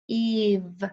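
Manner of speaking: "Eve" drawn out sound by sound; tapped-out sounds. Shown as a demonstration. Teacher tapping out the word for spelling, "Eve" sound by sound. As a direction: stretch "Eve" into a long E and a held V. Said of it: "Let's tap it out".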